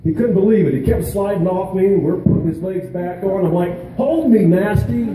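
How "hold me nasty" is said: a playful, much higher mock yell; half-joking retold shout at a friend; mock bark. Mock scolding buddy while crawling.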